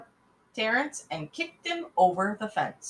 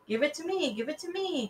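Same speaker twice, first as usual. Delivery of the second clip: demanding; 9 semitones higher than usual. Acted. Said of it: "Terrence demanded".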